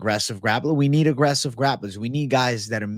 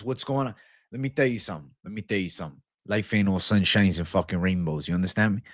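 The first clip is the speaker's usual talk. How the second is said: a hint of a mob boss, lower and softer; lightly voiced Don Vito; 4 semitones lower, 4 dB quieter, faster than usual. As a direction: lightly imitate a low-key mafia don giving advice. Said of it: "Don Vito says".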